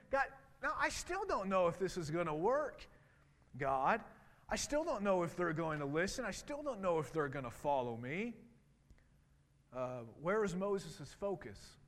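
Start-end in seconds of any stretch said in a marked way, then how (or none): 0.1-8.3 anxious pleading. Retold or imitated. Moses telling God the people won't listen, pleading. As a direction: plead your doubts with God.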